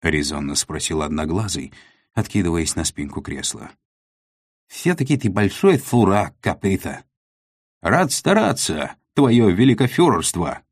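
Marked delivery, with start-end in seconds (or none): 4.7-7.0 scolding leader. A narrator's reading. 7.8-10.6 barked soldier reply, high and loud; loud gung-ho soldier. A narrator's reading. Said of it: "рявкнул в ответ Уйбуй".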